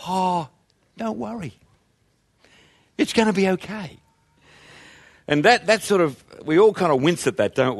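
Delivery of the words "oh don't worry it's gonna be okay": airy, much softer, breezy dismissal; blithe. Retold or imitated. Mocking a blithe comforter to a worried friend, airy and soft. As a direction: toss it off lightly, no real care. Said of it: "you blithely say".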